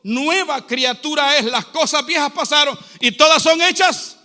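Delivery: projected, emphatic sermon delivery; preaching. Real, not acted. Preacher urging the church to hate poverty, emphatic preaching. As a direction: preach it out to the congregation.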